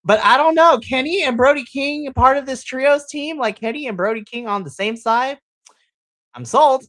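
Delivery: can't contain the hype; excited. Real, not acted. Podcaster hyping Kenny and Brody teaming up, excited. Hyped about a dream team-up.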